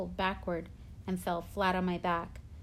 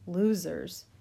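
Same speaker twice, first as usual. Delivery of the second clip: shouting; 4 dB louder than usual. A narrator's reading. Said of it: "Henry shouted really loudly".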